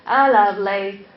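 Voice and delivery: brash mock American, loud at the start; put-on American accent, strong first word. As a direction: imitate a blunt, cocksure American. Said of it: "But Americans will say".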